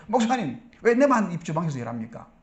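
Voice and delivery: mildly indignant protest to the pastor; acted, understated anger; mock angry outburst. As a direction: imitate a fed-up volunteer complaining. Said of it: "막 화를 내는 거예요".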